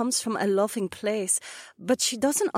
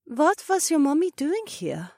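singsong; 6 semitones higher than usual. A narrator's reading. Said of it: "asked in a sing-song voice".

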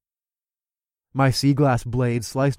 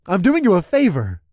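louder, cocky snark; snarky; 6 semitones higher, 5 dB louder than usual. Acted. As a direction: toss it off with a sneer. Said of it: "I snarked".

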